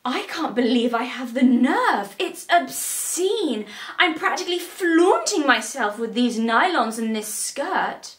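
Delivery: drawn-out, swooping mock horror; hammed-up prim outrage; mock scandalised. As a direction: act appalled at your own audacity. Mock outrage at own clothes.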